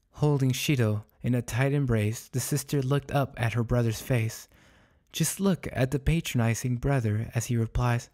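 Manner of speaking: measured, clearly articulated storytelling; story narration. A narrator's reading. Narrator describing sister and brother embracing the dog, measured storytelling. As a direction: read it out as literary fiction.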